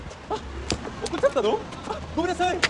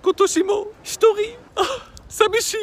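mock crying; 5 semitones higher, slower than usual. Alone at Christmas, crying.

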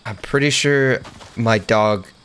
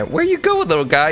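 mock taunt; 6 semitones higher than usual. Taunting a fleeing enemy.

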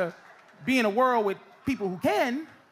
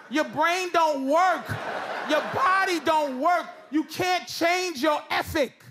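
ranting shout; 4 semitones higher than usual. Acted. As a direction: yell it like a fed-up comic. Ranting at old people.

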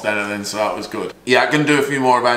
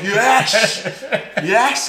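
mock flustered yes; 12 semitones higher than usual. Startled reply retold.

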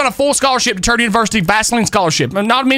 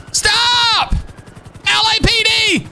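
high, slow shouted LAPD; police command; 10 semitones higher, much slower than usual. Acted. Officer ordering a suspect to halt, commanding shout. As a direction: call it out like a cop on foot.

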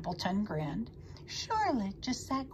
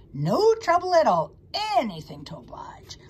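obliging rat; 6 semitones higher, 8 dB louder than usual. A narrator's reading. Rat offers string to the pig, obliging.

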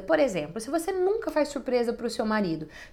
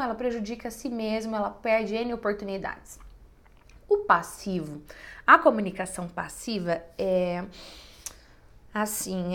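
ordinary talk, nothing marked

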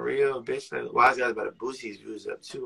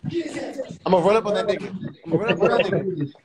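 shouting; 6 semitones higher, 4 dB louder than usual. Real, not acted. Hyped outside friend's door.

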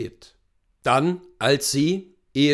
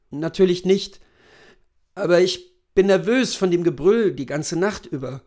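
lightly voiced nervous husband, somewhat higher; 5 semitones higher, 3 dB louder than usual. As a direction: confess frayed nerves to your wife, mildly. (leicht nervöser Ehemann)

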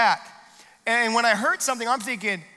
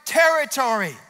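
mild plea; 4 semitones higher, 4 dB louder than usual. Acted. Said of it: "And then he said".

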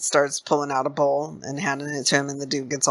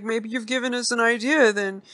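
put-on high-pitched, hesitant old man; old dude; 7 semitones higher than usual. Old dude playing along with the stranger, high hesitant voice. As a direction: play the old man hedging in a raised voice. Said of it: "the old dude's like".

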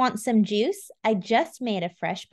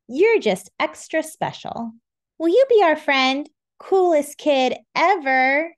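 cheerful friends; 5 semitones higher, 4 dB louder than usual. Acted. Characters praise the child.

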